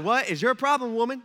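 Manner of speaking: annoyed. Retold or imitated. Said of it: "But I didn't say that".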